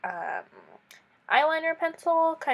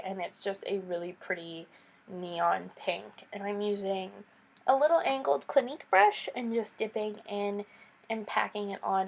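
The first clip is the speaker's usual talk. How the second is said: stuffy nose from a cold; blocked-nose, congested voice; nasal voice. Real, not acted. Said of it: "I'm sorry if I sound really weird and nasally".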